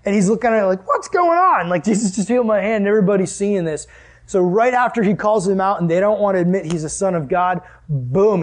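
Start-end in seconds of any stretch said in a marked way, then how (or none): 0.9-3.9 a man staring at his just-healed hand; stunned joy. Acted.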